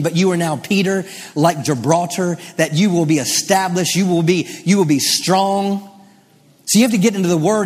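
emphatic, driving sermon delivery; impassioned pulpit proclamation; fervent preaching. Real, not acted. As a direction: declare it boldly to the congregation. Preaches with mounting force.

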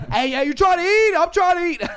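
high, loud mock demand; excited imitation at a shout; imitated hungry friend. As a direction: holler it like an impatient friend. Acts out friend eager to eat.

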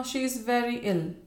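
understated tremble; trembling. A narrator's reading. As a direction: break the bad news anxiously.

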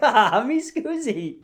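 slow, laughing mock apology with a put-on accent. Laughing off his wife's question with a silly accent. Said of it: "I was like".

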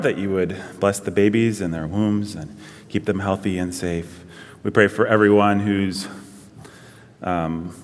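low, earnest prayer voice; congregational prayer. Real, not acted. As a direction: pray aloud for the congregation in a low, measured voice.

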